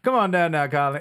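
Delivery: put-on old Cajun woman. Old Cajun wife calling Colin over, Cajun accent. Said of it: "an old Cajun woman".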